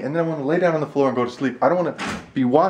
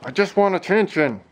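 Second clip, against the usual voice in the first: voicing the dog; 8 semitones higher than usual.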